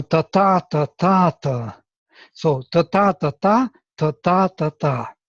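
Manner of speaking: repeated "ta-ta" with the second ta stressed; a teacher beating out the iambic foot. Shown as a demonstration. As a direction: tap out the foot steadily. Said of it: "So we have this, uh, foot".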